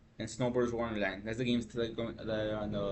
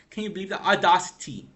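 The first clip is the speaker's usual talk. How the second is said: outraged; 6 semitones higher, 7 dB louder than usual. Real, not acted. Outraged at company statement.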